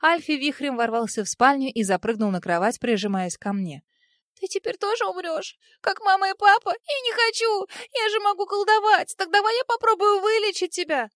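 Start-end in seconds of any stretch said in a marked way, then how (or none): 4.4-11.1 put-on high tearful boy's pleading; a little boy begging her not to die; scared small prince, near tears; frightened child. A narrator's reading.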